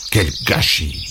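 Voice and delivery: low, soft grumble under the breath; Léon grumbling to himself, turned away; muttering. A narrator's reading. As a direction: mutter it while turning away. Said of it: "en marmonnant".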